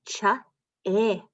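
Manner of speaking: "Wa-ile" split into onset and rime; sounding out. Shown as a demonstration. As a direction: segment the word for the kids. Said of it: "let's try the next one".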